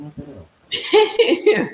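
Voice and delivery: high, loud, very drawn out; exaggerated disgust. Real, not acted. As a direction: stretch it out in mock outrage. Reacting to a burp on stream.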